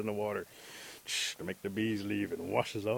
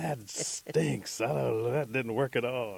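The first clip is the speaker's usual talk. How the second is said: raised, exasperated outburst; acted-out disgust; disgusted complaint; 3 semitones higher, 5 dB louder, slower than usual. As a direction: complain loudly about a useless remedy. He throws away failed charm.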